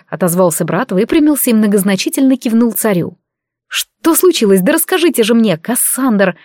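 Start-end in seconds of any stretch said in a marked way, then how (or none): 3.7-6.4 demanding. Acted. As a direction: press him for the story. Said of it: "потребовала я".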